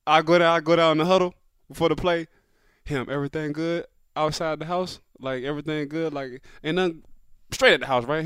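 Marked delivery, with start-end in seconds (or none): 2.8-7.0 quiet, offhand murmur. Retold or imitated. Re-enacts a low-key huddle check.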